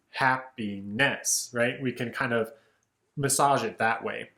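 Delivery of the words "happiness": "happiness" slowed, ending "-ness" stressed like "happi-NESS"; stress on last syllable. Shown as a demonstration. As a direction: slowly land on the "-ness" of "happiness". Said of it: "strong, weak kind of alteration".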